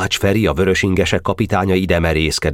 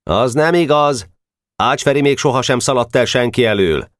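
put-on boy shouting an objection to the group; calling out; 6 semitones higher than usual. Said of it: "Geréb közbe kiáltott".

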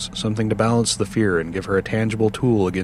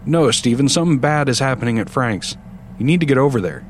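urgent; 4 semitones higher than usual. Acted. Sandy insisting urgently.

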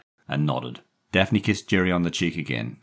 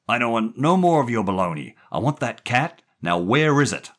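raised, louder gruff demand; angry; 8 semitones higher, 6 dB louder than usual. A narrator's reading. Jerry demanding the cat from the boy, angry. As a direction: lay down the law angrily. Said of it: "when he was angry".

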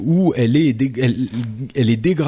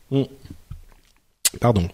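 while sipping a drink; 4 dB quieter than usual. Real, not acted. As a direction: cut off by a sip of water. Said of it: "je bois de l'eau".

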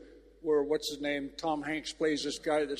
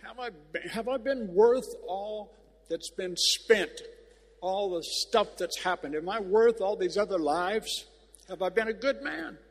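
pleading question; 4 semitones higher than usual. Retold or imitated. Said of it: "he was trying to say".

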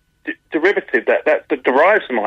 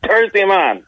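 put-on Jamaican accent; 5 semitones higher, slower than usual. Comedian jokes that Jamaican sounds Irish, Jamaican accent. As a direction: say "Thursday" in a mock Jamaican accent. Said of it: "people of Jamaica and what have you".

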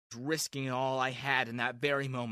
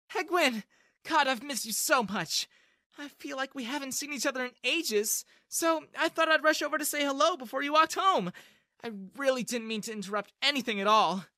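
high, sugary, poisonous tone; sweet on top, venom underneath; venomous sweet girl; 9 semitones higher, 4 dB louder than usual. A narrator's reading. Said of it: "Maria's venomous tone".

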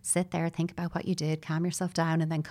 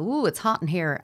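louder, agitated ooh as the heat rises; heated reaction; 4 dB louder than usual. Retold or imitated. Parent as thermometer reacting to child's distress, heated. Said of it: "the thermometer will go in and go".

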